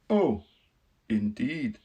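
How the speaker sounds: polite surprise as the Woodman; Tin Woodman voice. Acted. Woodman bowing to the queen, politely surprised.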